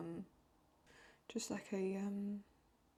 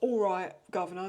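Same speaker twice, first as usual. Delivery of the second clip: light mock Cockney English greeting; a quick hammed-up Cockney English hello; playful Cockney English, a touch louder; 7 dB louder than usual. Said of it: "that sort of very Cockney English".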